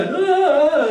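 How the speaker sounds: high sung gasp of alarm; parents' gasp. Retold or imitated. Parents watch the wobbling child, a high, alarmed sung gasp. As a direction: let out a high, sung "ah" of worry. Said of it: "And the parents go".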